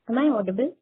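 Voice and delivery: distant speakerphone sound. Real, not acted. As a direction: caller on speakerphone. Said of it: "are you speaking through the speakerphone".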